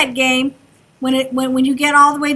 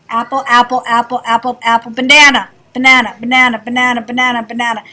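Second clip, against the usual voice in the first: steady repeated apple, then banana on a falling close; listening demo; 3 semitones lower, 3 dB louder than usual. Shown as a demonstration. Teacher to class, chanting apple then banana for a sound drill.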